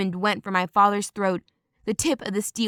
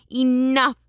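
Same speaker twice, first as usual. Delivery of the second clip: higher, louder commanding shout; a commanding bellow to stop the fighting; roar; 4 semitones higher, 4 dB louder than usual. Acted. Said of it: "an ancient roared".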